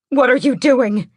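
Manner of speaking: high, loud alarmed exclaim. A narrator's reading. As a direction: burst out at the sight. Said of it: "she exclaims".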